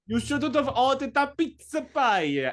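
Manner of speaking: high, slow alien voice. Pretend. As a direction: scold like a squeaky alien. Still voicing the alien.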